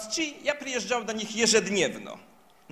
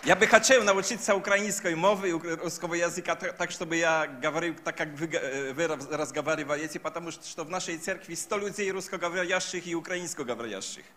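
Polish-accented halting Russian; broken Russian with a Polish accent; foreign accent Russian; faster than usual. Real, not acted. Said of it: "Извините за мой р-, русский язык".

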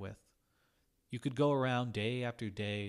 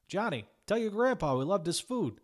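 much higher, louder cheerful call; 10 semitones higher, 8 dB louder than usual. A narrator's reading. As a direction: shout it across the restaurant to Johnny. Customers calling out praise.

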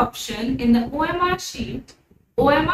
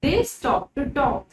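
slow, careful storybook reading; slow read-aloud; much slower than usual. Acted. Teacher reading the story to her pupils, slow and careful. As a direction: read each word out slowly for the class.

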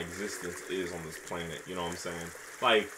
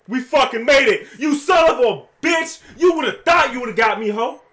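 loud, high relieved shout; triumphant yelling; 11 semitones higher, 12 dB louder than usual. Real, not acted. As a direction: cheer in wild relief. Escaped the monster.

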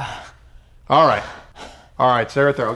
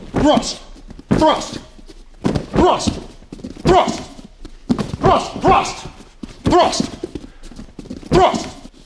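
high strained cry on every strike; exertion cries; 8 semitones higher, much slower than usual. Acted. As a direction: bark each thrust as you hit. Demonstrating repeated thrust strikes.

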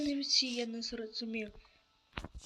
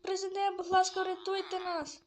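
pleading for rescue; 6 semitones higher than usual. Acted. Begging the president for rescue.

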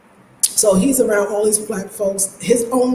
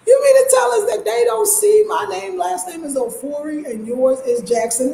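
mock incredulous Ghanaian; 8 semitones higher than usual. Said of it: "they was like".

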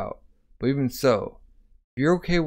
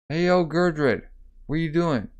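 higher-pitched hail; light, raised call to someone; 4 semitones higher than usual. Retold or imitated. Calling to Gurdred, lightly acted hail.

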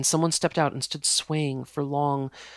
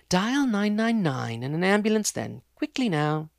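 higher, curt compromise; grudging fiancée; 6 semitones higher than usual. Acted. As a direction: give in but hurry him. Jessica relents.

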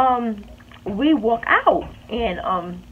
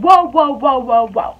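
calling out to stop; 7 dB louder, slower than usual. Retold or imitated. Breaking up locker room fight.

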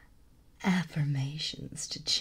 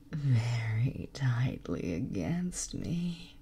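motherly whisper; slower than usual. Acted. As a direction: coax them gently to sleep. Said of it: "use this motherly tone".

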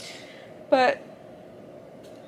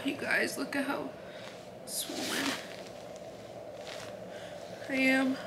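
soft unvoiced whisper, much softer; 13 dB quieter than usual. Real, not acted. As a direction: hush it like a secret to the viewers. Showing swollen body, hushed.

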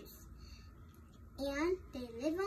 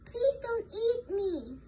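lightly acted plea, higher and slow; pleading little goat; 5 semitones higher, 3 dB louder, slower than usual. Little goat begging the troll, higher, slow plea.

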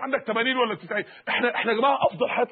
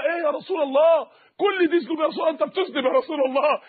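astonished questioning; 3 semitones higher than usual. Acted. Acted astonished questions to the Prophet.

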